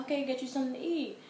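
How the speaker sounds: fed up and hurrying him along; annoyed. Retold or imitated. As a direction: brush him off impatiently. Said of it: "I was annoyed".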